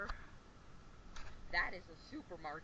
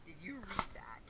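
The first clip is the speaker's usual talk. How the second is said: whispering; 2 semitones higher than usual. Real, not acted. Whispers in the supermarket.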